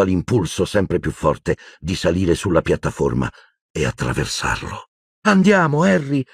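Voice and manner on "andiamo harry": high, firm call of his name; insist, louder this time; pressing, raised repeat; more insistent. A narrator's reading. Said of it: "ripeté Hermione più decisa".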